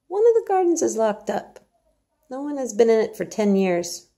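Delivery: high, hushed-out reveal of a secret; hesitant secret. Acted. Martha hesitates, then reveals the locked garden. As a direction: let it slip after a pause. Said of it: "hesitate a second".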